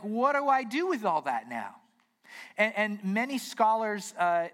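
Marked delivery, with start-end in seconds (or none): 0.0-1.8 raised, higher-pitched mock bewilderment; left at a loss. Listeners left puzzled after the scribes' reading, acted bewilderment. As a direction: ask it as the baffled listener, pitched up. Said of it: "they were left kind of going".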